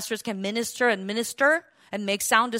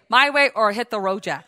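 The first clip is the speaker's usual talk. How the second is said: mock boss; 3 semitones lower, 5 dB louder than usual. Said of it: "Or I just say".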